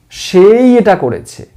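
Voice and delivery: সেই pressed firmly, then falling; stress on সেই. Shown as a demonstration. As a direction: hit সেই clearly. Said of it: "জোর দিয়ে বলছি".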